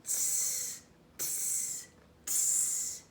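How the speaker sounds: soft unvoiced tsk tsk tsk; cheeky monkeys tsking back. Monkeys mocking the peddler, soft cheeky tsking. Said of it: "and said".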